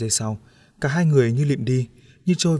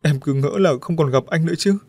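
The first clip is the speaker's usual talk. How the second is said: sobbing; 4 semitones higher, 4 dB louder than usual. Acted. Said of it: "bật khóc nức nở".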